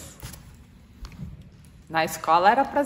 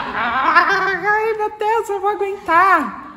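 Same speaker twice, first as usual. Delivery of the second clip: much higher, louder voice bursting with suppressed giggles; barely holding in a laugh, squealing; held-back laughter; 12 semitones higher, 8 dB louder, much slower than usual. Retold or imitated. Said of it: "E por dentro você tá".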